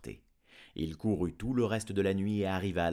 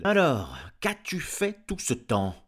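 louder, fast irritated farmer; gruff farmer; 6 semitones higher, 7 dB louder than usual. Acted. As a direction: bark orders at his wife. Farmer questions dog. (fermier bourru et agacé, plus fort et rapide)

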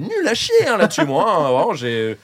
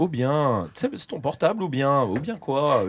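put-on lazy Swiss accent, drawn out on "ou bien"; unhurried, understated Swiss caricature; Swiss French accent; 2 semitones lower, 5 dB quieter than usual. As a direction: question them in a mock Swiss accent. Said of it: "ils disent tout le temps".

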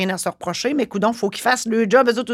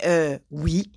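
calm reply; 5 semitones lower than usual. Retold or imitated. Inspector answers the furious notary, calm and low. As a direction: stay totally calm. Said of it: "Tout calme".

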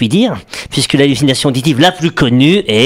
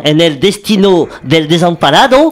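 lightly done Spanish accent on "En el destino del desamparado". Shown as a demonstration. Host showing off his Spanish accent to the co-host. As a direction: read the line with a Spanish lilt. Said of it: "regardez mon accent".

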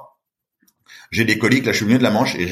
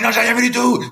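clueless surprise; 11 semitones higher than usual. Retold or imitated. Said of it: "Je dis".

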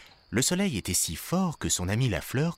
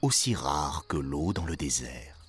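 put-on very old man; 6 semitones lower than usual. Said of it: "dit le vieil homme".

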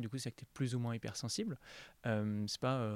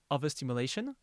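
English term with a French accent. Real, not acted. Interviewer giving the acronym's second letter, French-accented English. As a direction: pronounce it as a French speaker of English. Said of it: "mon accent anglais, euh, va rentrer en, en scène".

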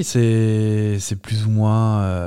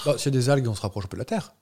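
put-on a light Spanish accent on French, softer; 6 dB quieter than usual. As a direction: say it like a Spanish sailor, gently. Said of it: "avec l'accent espagnol et tout".

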